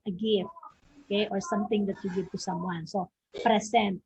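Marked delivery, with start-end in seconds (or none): 3.4-4.0 "present", stressed on PRE; stress on first syllable. Shown as a demonstration. Teacher showing where the noun is stressed, first-syllable stress. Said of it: "that stress is in the first syllable".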